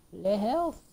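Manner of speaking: put-on a quick jokey French accent on Le health; playful fake French accent; mock French accent. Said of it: "I'm speaking French".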